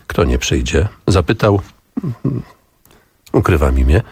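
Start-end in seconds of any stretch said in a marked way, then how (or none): 0.1-0.9 sympathetic. Acted. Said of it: "ze współczuciem".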